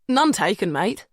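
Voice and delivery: put-on easygoing Antipodean accent; Antipodean drawl. A narrator's reading. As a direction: answer in a relaxed Antipodean drawl, rising at the end. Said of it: "responds in an easy Antipodean drawl".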